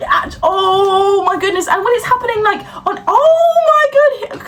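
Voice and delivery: high, exasperated ranting with laughter; boiling over, voice cracking up; real rage breaking into a laughing shout. Real, not acted. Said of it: "why did that bring me so much rage".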